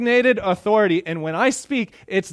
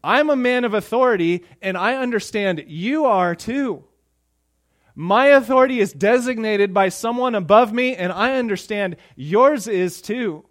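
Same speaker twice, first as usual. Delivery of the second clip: louder and higher, proud commander; confident centurion; 5 semitones higher, 4 dB louder than usual. Retold or imitated. Centurion explaining his authority to Jesus, loud and sure. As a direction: speak like a man whose word is law. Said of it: "He's saying".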